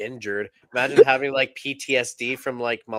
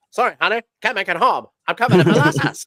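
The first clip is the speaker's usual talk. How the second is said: put-on higher and louder, like an old telephone line; an early-1900s caller on a crackly phone; old-timey phone voice; 5 semitones higher, 8 dB louder, faster than usual. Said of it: "on those old-timey phones with that old-timey voice".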